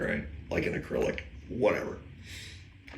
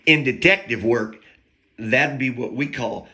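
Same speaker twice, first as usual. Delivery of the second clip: Smib impression. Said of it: "He says in his best Smib".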